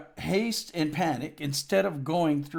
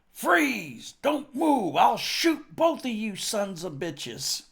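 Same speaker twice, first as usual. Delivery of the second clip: higher, louder barked orders; mock guard shout; 7 semitones higher, 4 dB louder, slower than usual. Border guard yelling at two men, mock shout. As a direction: bark it like an armed border guard.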